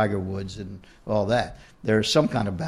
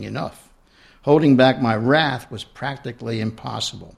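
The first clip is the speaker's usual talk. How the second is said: reading her own book aloud; story narration. A narrator's reading. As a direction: read it out like an author at a reading.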